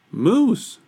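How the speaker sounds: very high little reply; Moose's meek voice. A narrator's reading. Moose meekly answers roaring Bear.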